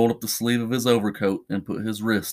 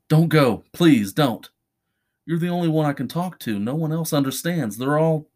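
higher-pitched, urgent begging; desperate pleading; 5 semitones higher than usual. Acted. Charlie begs his only confidant to stay, pleading. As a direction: plead as if about to be abandoned.

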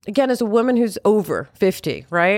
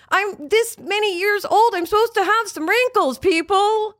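emphatic; 9 semitones higher than usual. Real, not acted. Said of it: "insisting on wrinkles".

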